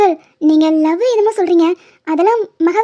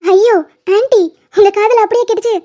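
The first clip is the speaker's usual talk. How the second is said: cheeky insolence; 2 semitones higher than usual. Acted. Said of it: "ரொம்ப திமிரா பேசுற மாதிரி இருக்கு".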